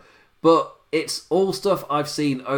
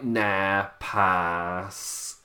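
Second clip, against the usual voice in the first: bad line delivery; 5 semitones lower, 3 dB quieter than usual. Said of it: "worse than my delivery there".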